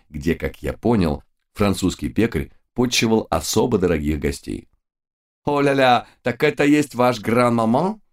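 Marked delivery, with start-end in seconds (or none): 5.4-8.0 put-on high, cheery French-accented baker; cheerful French baker. A narrator's reading. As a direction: call out like a jolly French pastry chef. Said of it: "крикнул нам вслед жизнерадостный Луи".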